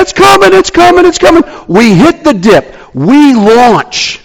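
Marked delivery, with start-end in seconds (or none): 0.0-1.4 very high, loud rising excitement; excited anticipation. Retold or imitated. Friends in the car feeling the dip coming, shrieking with excitement. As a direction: build the thrill of the jump. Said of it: "and they say".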